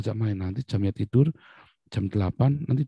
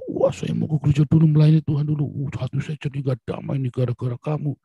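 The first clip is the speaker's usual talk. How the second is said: higher-pitched aggrieved grumble, acted; mock complaint; 4 semitones higher than usual. Preacher mimicking a parent blaming family, mock exasperation.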